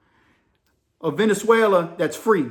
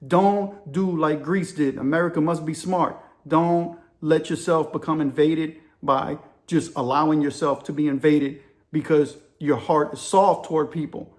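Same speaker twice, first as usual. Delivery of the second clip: lightly imitated Greek accent; deliberate warning with a hint of Greek English; poor Greek accent. Greek chief warning America, mild imitated Greek accent. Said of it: "in my poor Greek voice".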